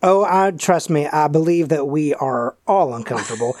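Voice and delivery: a light hint of Hank Mansfield's accent, unplanned; half-hearted Hank accent on an out-of-game line; slipping into Hank's accent. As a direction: lets the character's accent creep into a table remark. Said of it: "I don't mean to say that in the accent".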